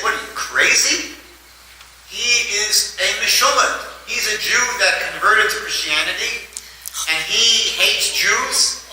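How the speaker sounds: high, alarmed protest; alarmed friends. Acted. Friends aghast at the plan.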